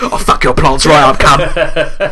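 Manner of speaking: hardcore British botanist. Retold or imitated. Mocking the film's tough British botanist, loud threat. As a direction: bark it like a hardcore plant lady, half joking.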